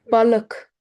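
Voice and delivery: Balık with a schwa-like ı; dotless ı. Shown as a demonstration. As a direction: say Balık with a dull uh before the k. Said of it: "Balık is wrong".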